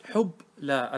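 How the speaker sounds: حب لا with the b held vowelless; teacher's syllable-by-syllable حب لا; split at the sukun. Shown as a demonstration. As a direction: halt after حب before adding لا. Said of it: "الحرف الثاني ساكن".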